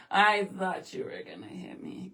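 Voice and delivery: a full whisper, no voice at all; mock fright, whispered. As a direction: whisper it like a guilty secret. Repeats the joke, whispered.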